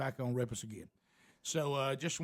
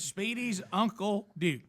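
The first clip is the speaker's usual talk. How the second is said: slow, drawn-out announcer intro; 6 semitones higher, much slower than usual. Acted. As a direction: roll out the name like a host. Announcing the name.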